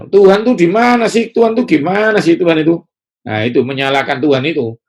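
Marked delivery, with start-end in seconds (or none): 0.1-2.8 high, loud exasperated complaint; mock angry complaint at God; blaming God. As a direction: whine accusingly at God.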